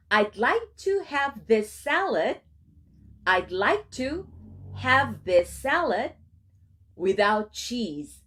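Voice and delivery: slow, phrase by phrase; slow chunked demo. Shown as a demonstration. Teacher models a restaurant order in slow chunks. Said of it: "teacher models slowly in chunks".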